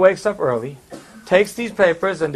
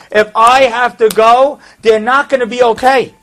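higher, insistent acted appeal; urgent pleading; 5 semitones higher, 5 dB louder than usual. Only son begging rabbi to save his elderly parents, pleading. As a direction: plead the case as the retold soldier.

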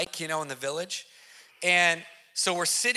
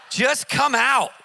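louder and slow, a stern order; firm command; 5 semitones higher, 6 dB louder, slower than usual. Retold or imitated. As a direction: order the demon out. Pastor commands the demon.

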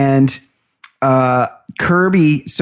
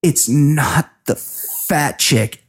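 slow, teary, drawn-out denial; mock tearful; much slower than usual. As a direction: imitate her holding back tears, slowly. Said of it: "kind of tearing up".

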